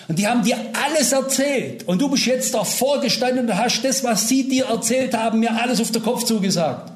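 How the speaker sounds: angry man accusing the preacher of being set up; retold angry accusation. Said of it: "hat mich angegriffen".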